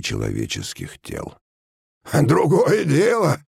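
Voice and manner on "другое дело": high, drawn-out satisfied remark; smirking approval. A narrator's reading. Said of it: "усмехнулся машинист". (довольно, с усмешкой)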